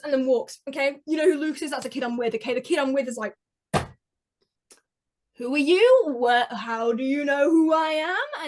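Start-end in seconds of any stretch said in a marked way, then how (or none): 5.4-8.5 mock confrontation. Acting kid challenging a stranger.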